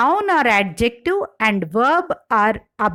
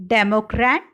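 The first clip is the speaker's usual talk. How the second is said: democrat with DEM stressed; first-syllable stress in democrat. Shown as a demonstration. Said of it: "Stress shift in derived words".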